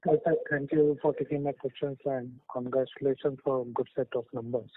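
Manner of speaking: muffled voice, hand over mouth. Real, not acted. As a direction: speak muffled behind a hand. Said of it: "Sorry, your voice is coming very muffled".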